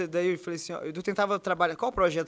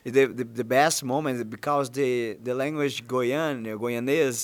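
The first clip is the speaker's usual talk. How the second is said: lower, slow halting English voice; 6 semitones lower than usual. Shown as a demonstration. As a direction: drop the voice low and speak English slowly. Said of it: "Como que é a sua voz em inglês?". (voz grave falando inglês)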